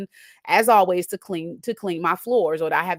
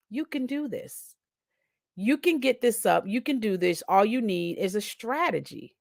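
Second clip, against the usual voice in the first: calm inner voice; 4 dB quieter than usual. Retold or imitated. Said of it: "a calm just came over me".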